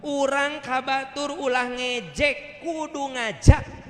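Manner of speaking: high, slow, drawn-out maxim; imitating an elder cleric's teaching; old teacher's voice. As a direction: stretch each word out, pitched high. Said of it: "Apa kata beliau?".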